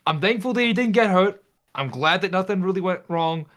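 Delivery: nervous guy explaining fast. Acted. Player voices Ethan in character.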